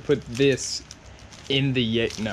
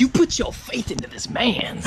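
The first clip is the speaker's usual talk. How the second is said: hushed aside whisper; 7 semitones higher than usual. Acted. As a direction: whisper it to the camera. Whispered joke to camera.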